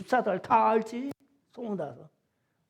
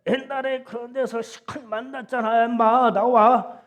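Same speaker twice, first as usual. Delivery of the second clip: louder, higher yell; retold yell; 5 semitones higher, 7 dB louder than usual. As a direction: bark the order to come out. Friend yells on phone.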